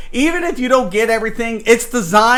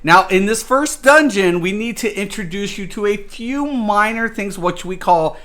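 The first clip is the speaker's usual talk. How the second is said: lightly voiced theme park ride announcer; a hint of a tour guide talking down to newbies; mock ride announcer. The dungeon welcoming new players, lightly mock tour guide. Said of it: "It's designed to say".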